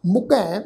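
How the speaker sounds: ਮੁਕੈ with a nasalised final vowel; ਮੁਕੈ ending in a nasal vowel; nasal pronunciation. Shown as a demonstration. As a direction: say ਮੁਕੈ with the last vowel through the nose. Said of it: "ਮੁਕੈ ਸ਼ਬਦ ਦਾ ਨਾਸਕੀ ਉਚਾਰਨ ਕਰਾਂਗੇ".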